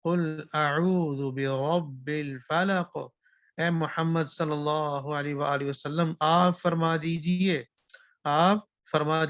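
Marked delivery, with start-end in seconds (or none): 0.0-3.0 slow Quranic recitation of قل اعوذ برب الفلق. Shown as a demonstration. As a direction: chant it slowly, tajweed style. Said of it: "قل کینچی والا قاف ہو". (آہستہ تلاوت کا انداز)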